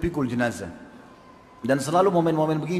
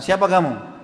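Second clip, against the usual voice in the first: louder, indignant retold challenge; mildly raised, affronted quote; angry challenge; 4 dB louder than usual. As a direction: act out an angry garden owner confronting an intruder. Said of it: "Lalu dia marah".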